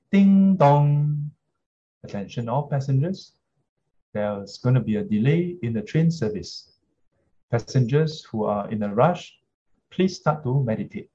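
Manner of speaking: official public address voice; train station announcement. Pretend. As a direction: read it like a platform PA. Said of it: "If you hear this announcement".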